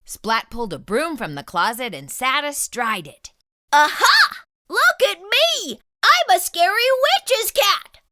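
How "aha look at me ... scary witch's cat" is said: high, loud gleeful boast; cried out. Acted. Splat showing off his witch's cat costume, high and excited. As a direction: show off the costume, thrilled. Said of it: "cried Splat".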